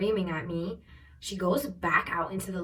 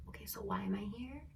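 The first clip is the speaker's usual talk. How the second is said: very soft, puzzled question, rising end; imitated campus police; 10 dB quieter, faster than usual. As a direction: lightly voice a bewildered officer. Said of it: "the campus police is like".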